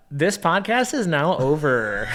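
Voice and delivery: mock script-reader sign-off; stilted enunciation. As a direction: announce the ending in a stiff narrator parody. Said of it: "Enunciate a certain way".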